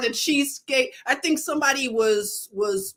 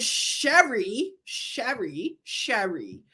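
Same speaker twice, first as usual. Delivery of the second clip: Philly accent; 3 dB quieter, slower than usual. Shown as a demonstration. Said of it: "That's a Philly accent".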